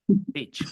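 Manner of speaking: BEACH said with a quick lax ih, as bitch; short i. Shown as a demonstration. Teacher showing the bad word below, short i. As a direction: shorten and loosen the vowel in BEACH. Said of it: "con I corta".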